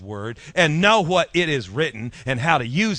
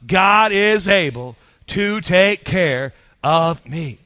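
loud, very slow rallying declaration; slow, forceful call for all to join in; building it up; 2 semitones higher, 5 dB louder, much slower than usual. Shown as a demonstration. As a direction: build it up, then let the last words settle. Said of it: "Build it up".

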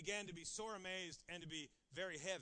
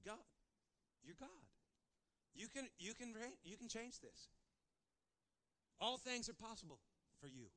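hushed prayer; 7 dB quieter than usual. Acted. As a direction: pray it quietly, close in. Soft prayer voiced.

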